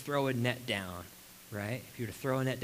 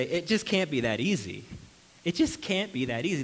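doubting believer; 3 semitones higher, 4 dB louder than usual. Retold or imitated. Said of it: "They will say".

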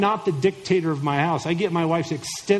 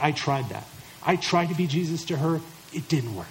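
mock defeated husband; 2 semitones lower, 4 dB quieter than usual. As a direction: play a husband who has given up. Acted defeated husband's excuse.

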